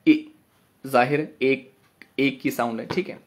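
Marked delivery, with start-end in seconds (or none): 0.1-0.3 ई as a brief, short i sound; quick single-beat ई; short vowel. Shown as a demonstration. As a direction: say ई short, not held. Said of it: "छोटा ई".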